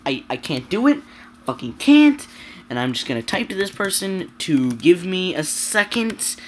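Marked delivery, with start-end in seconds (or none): 1.5-2.3 louder, higher fed-up burst; sudden angry burst; frustrated outburst. Real, not acted. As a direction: blurt it out in anger. Rising frustration in rant.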